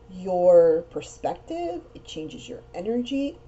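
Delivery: hiccups. Real, not acted. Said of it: "Sorry, I got the hiccups".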